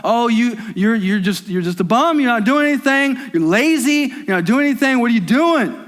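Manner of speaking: preacher voicing the world calling him a bum, scornful; accusing voices. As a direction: nag like a judgmental culture. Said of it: "all those voices outside and inside".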